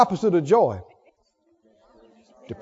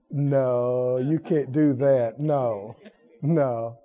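gentle refusal; 7 semitones lower, much slower than usual. Retold or imitated. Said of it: "smile and go".

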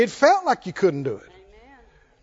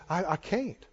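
a much softer, defeated I can't; mock helpless refusal; 4 semitones lower, 11 dB quieter than usual. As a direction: let it collapse into a meek refusal. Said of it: "people look at me and say".

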